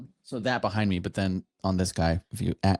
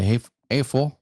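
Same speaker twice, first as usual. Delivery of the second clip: cholo-style Hispanic accent; 4 semitones higher than usual. Shown as a demonstration. Prompting a co-host to try it, Hispanic accent. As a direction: call out in a Hispanic accent, pitched up at the end. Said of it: "Can you do a Hispanic one?".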